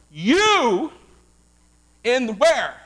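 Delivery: rising call and response; building preacher's call. Acted. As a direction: draw it out and climb to a call. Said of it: "builds to who".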